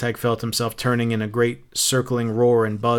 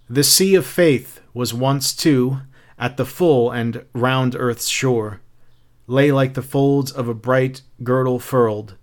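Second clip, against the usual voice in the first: poem reading. A narrator's reading. Montag reciting Dover Beach to the women, measured poem reading. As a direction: stretch the line endings deliberately. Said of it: "began to read in a low, stumbling voice".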